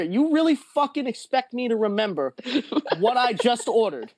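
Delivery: high mock yell, slowing at the end; yelling at cashier. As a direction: drunk guy yelling at the cashier, mock angry. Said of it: "Fucking yelling at the cashier".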